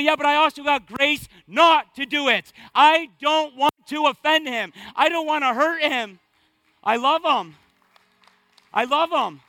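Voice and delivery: fervent reply. Acted. Answering imagined questioner, loving God.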